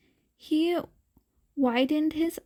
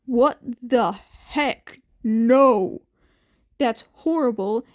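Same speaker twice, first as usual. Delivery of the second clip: shocked outburst; 6 dB louder than usual. A narrator's reading. Teacher shocked at abuse.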